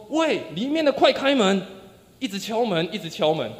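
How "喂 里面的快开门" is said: raised voice, pitched higher; demanding shout, moderately raised; loud call. Retold or imitated. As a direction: call out to be let in. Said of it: "并且大声地说".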